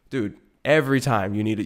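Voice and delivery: ordinary delivery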